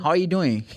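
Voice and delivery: "How are you doing" run together with "are" nearly gone; American reduced vowels. Retold or imitated. Teacher imitating Americans, "How are you doing" with "are" reduced. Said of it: "Ele tira o".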